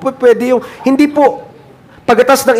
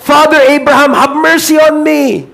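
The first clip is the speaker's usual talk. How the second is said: crying rich man; 5 semitones higher than usual. Acted. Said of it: "And he cried".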